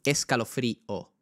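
escalofrío in slow beats, first E stressed. Shown as a demonstration. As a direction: beat out escalofrío slowly from a stressed E. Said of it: "el acento ahí va en la E". (escalofrío marcado despacio, con acento en la e)

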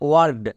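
"ওয়ার্ড" begun with a wa sound. Shown as a demonstration. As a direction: read out "ওয়ার্ড" with open aa after w. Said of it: "এর জন্য sound হয় ও আ". ("ওয়ার্ড", শুরুতে ওয়া ধ্বনি)

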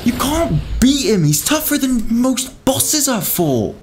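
very high, stretched-out wail; real gamer despair, high and drawn out; exasperated whining. Real, not acted. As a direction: wail in helpless frustration. Losing to tough enemy.

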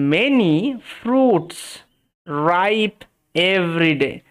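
very slow, stretched words with long pauses; word-by-word reading. Shown as a demonstration. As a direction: read it out for learners, word by word. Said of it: "ভেঙে ভেঙে উচ্চারণ করার চেষ্টা করি". (ভেঙে ভেঙে ধীরে পড়া)

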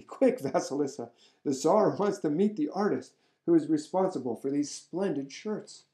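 excitedly calling up to the window. Acted. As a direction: call her in a rush of excitement. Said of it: "She called out excitedly".

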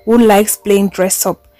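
deliberate reading, stretching the key words; blog post read-aloud. Acted. Blogger criticising Bobrisky, read aloud with pointed emphasis.

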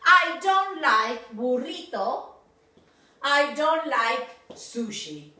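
teacher models dislikes; slow negation. Shown as a demonstration. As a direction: stress the negative.

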